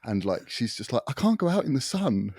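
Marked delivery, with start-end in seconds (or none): 1.1-2.3 high, loud put-on complaint from the wife; mock whiny wife. Husband mimicking his wife's complaint, high and loud. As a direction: play the sun-shy wife, pitched way up and pushed.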